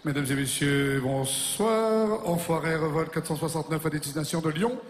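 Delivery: pilot cockpit headset. Acted. Pilot cabin announcement.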